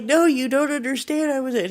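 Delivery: a wife desperately insisting to her doubting husband. Retold or imitated. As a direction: beg him to understand.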